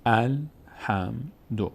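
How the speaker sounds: الحمدو slowly split as al, ham, du; syllable by syllable. Shown as a demonstration. Teacher giving an example of fatha on alef, syllable by syllable. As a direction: sound out الحمدو with an opening short a.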